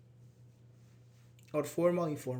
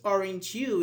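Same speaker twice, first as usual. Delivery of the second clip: "aren't you" pushed louder, asking for an answer; answer-seeking tag; 3 semitones higher, 5 dB louder than usual. Shown as a demonstration. Teacher shows students a tag demanding an answer, questioning intonation. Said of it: "okay, answer, answer me".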